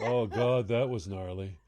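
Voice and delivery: put-on low, understated Midwestern accent; a hint of Midwestern dismay. Co-host showing the Midwest meaning of gnarly, Midwest accent. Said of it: "if you're somewhere in the Midwest".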